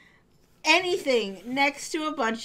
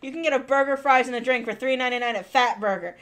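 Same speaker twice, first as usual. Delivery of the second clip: loud, upbeat ad pitch; hard sell ad; 6 dB louder than usual. Retold or imitated. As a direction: sell it like a burger commercial. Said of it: "he said it like an ad for Fat Burger".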